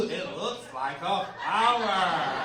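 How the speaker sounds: slow, dopey imitation; dumbass voice. Comic repeats the girl's line in her dopey slow voice. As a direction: drawl it out as the clueless girl. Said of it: "exactly how she said it with that dumbass face".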